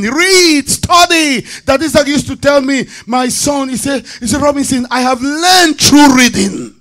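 high-pitched, impassioned pulpit exhortation; exhorting preaching. Acted. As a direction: drive each command home to the congregation. Exhorts congregation to read.

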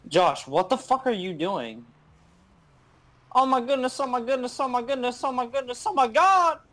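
high, loud, frantic yelling; hyped gamer bro. Real, not acted. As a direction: freak out over the play. Freaking out during a play.

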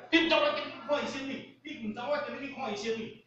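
high, fast mock scolding; high-pitched retold outburst; imitated wife's yell. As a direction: imitate a wife snapping into the phone. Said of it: "大声就叫".

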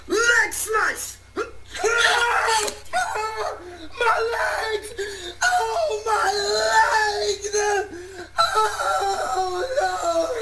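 anime hero in pain. Acted. Hero wounded in mock fight.

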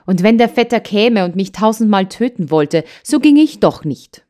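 put-on child shouts her refusal at grandmother, rising in anger; building angry cry. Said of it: "rief das Trini".

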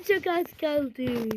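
slow, soft whisper; a slow, hushed suspenseful whisper. Real, not acted. Whispering near the end.

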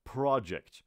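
"پروژکت" said with a "pra" first syllable; right pra-ject. Shown as a demonstration. Teacher gives the class the right "پروژکت", "pra" opening. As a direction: start "پروژکت" with "pra", never "pro". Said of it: "پرو هم نیست".

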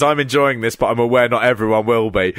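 lightly imitated wrestling commentator; a measured touch of reserved commentary; politely amused, as if not everyone will agree; Kent Walton. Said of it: "Kent Walton is doing his".

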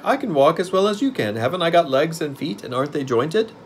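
high creature voice, easing down; pumpkinhead. A narrator's reading. Pumpkin man proving he can walk, high voice. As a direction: insist in a high, put-on pitch. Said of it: "said Jack".

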